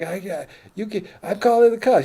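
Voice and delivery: high, loud panicky protest; mock outraged guest. Drunk guest threatening the bouncer with police, mock outrage. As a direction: yelp it in a high mimicking voice.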